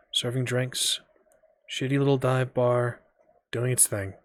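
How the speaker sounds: soft, measured suspense narration; hushed storyteller with spaced-out phrases; game master scene setting. Acted. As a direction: let the reveal hang with long pauses. Game master sets an eerie scene.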